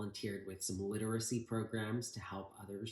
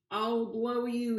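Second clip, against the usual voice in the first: much higher, slow hammed-up yell; yelled threat; 13 semitones higher, 7 dB louder, slower than usual. Van Itch yelling at Grandpa on the wall, hammed-up yell. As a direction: bellow the threat at your foe. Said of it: "he yelled".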